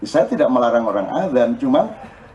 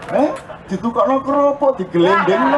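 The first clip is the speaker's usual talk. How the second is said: laughing; 8 semitones higher than usual. Retold or imitated. Lanjutan reaksi dengan tawa.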